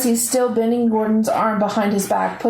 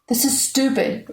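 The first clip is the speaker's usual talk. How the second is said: cried out; 4 semitones higher than usual. A narrator's reading. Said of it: "Layla cried".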